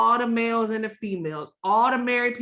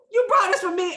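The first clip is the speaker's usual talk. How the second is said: higher, lifted surprised question; delighted surprise; 10 semitones higher, 3 dB louder, faster than usual. Retold or imitated. Thanking the cook, lightly imitating delighted surprise. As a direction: gush like a gift just landed. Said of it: "I'd be like".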